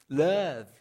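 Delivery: loud, firm single word; emphatic repeat. Real, not acted. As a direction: land the word hard. Preacher repeats the answer.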